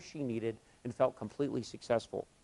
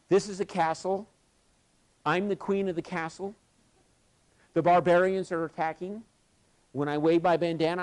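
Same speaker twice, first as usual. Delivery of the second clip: raised-pitch, measured proclamation with pauses; lightly voiced queen; 4 semitones higher, 3 dB louder than usual. Queen of the castle rallying defenders against barbarians, lightly imitated proclamation. Climber plays queen giving orders.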